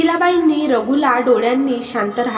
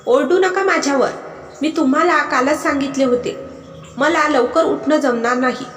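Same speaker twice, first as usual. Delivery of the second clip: raised voice; 3 semitones higher than usual. Acted. Wife shouting back at husband, raised voice. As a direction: snap back, voice climbing. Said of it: "ती सुद्धा आवाज चढवून बोलली".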